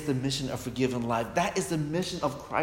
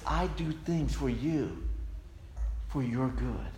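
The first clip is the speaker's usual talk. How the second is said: pure-hearted love. Shown as a demonstration. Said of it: "the love from a pure heart says".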